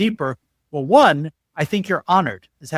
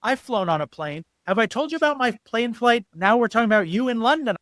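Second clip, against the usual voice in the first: higher, mocking one-upping; self-absorbed interrupter; 5 semitones higher than usual. Worst listener one-upping the story, mocking self-absorption. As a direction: talk over them about your own flight. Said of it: "The worst is like".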